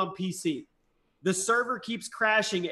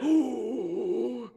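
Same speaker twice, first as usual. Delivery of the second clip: crowd "ooh"; 3 semitones higher, 4 dB quieter than usual. Retold or imitated. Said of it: "everybody's like".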